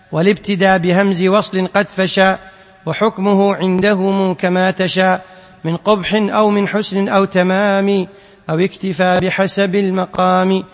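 measured chanting of verse lines; poem recitation. Acted. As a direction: intone the poem line by line like a teacher. Teacher chants the didactic poem. (إنشاد الأبيات بتنغيم)

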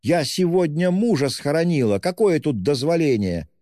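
high, anguished wail. A narrator's reading. Widow wails at the policeman, high anguish. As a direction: wail it out in grief. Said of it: "завопила Катерина Ивановна".

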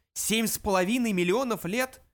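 high, incredulous question; astonished exclamation. A narrator's reading. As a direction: exclaim it in shocked disbelief. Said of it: "дружно воскликнули".

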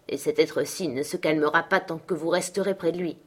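lightly voiced domineering father, forceful; a hint of a scornful master, emphatic; harsh, indignant father. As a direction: rebuke the boy, then order the servant about. Heathcliff rebukes son, dismisses Nelly.

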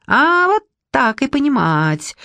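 high, slow shrill squeal; a squealing man caught out. Acted. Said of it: "заверещал ... неожиданно высоким визгливым голосом".

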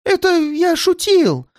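высоко, торопливо оправдываясь; выкрутись любой ценой; жалкое оправдание. Acted. Пойманный преступник оправдывается. (панически оправдываясь)

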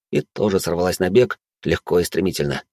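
normal talking voice

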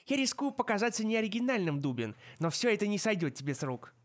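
lightly voiced sardonic centaur; ироничный кентавр. A narrator's reading. Foaly retorts. (слегка насмешливый голос кентавра)

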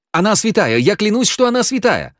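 earnest high oath; fervent vow. A narrator's reading. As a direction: plead her innocence passionately. Genka swearing fervently.

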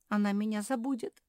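всхлипнула. Acted. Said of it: "всхлипнула Жози".

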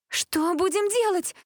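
high, drawn-out cry to the crowd; shouted question. A narrator's reading. Cheer captain Jessica to the crowd, shouting. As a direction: call it out high and slow. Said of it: "прокричала Джессика".

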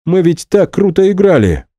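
indignant. Acted. Max, outraged that the band is breaking up, cries out. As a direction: protest loudly at the unfairness. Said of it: "возмущался Максим".

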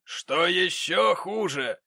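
high, loud, slow building outrage; outraged gentleman. Acted. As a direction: spit out the insult in horror.

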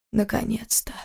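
тихий облегчённый шёпот; выдохни почти без голоса; шёпотом. Acted. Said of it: "прошептал он". (прошептать с облегчением)

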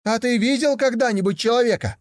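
put-on high, eager young tiger voice; a curious cub wondering aloud; naive young tiger.

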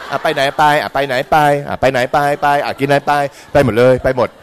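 loud, repetitive going-along; mock easy compliance. Follower with no opinion agreeing to any plan, mock compliant. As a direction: go along with everything, hammed up.

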